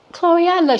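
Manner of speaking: imitating her drunk friend's gushing. Friend drunk at the bar, gushing high. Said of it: "she drunk now".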